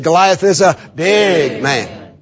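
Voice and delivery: slow, with big leaned on; Goliath is a big man, big stressed. Shown as a demonstration. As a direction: say it slowly and press on big. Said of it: "emphasize the word big".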